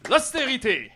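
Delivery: loud announcing. Acted. Mock applause list of woes.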